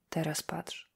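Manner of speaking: hushed whispered order. Acted. Górny to Szymański over the photos, whispered. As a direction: breathe it, no voice, pointing his eyes.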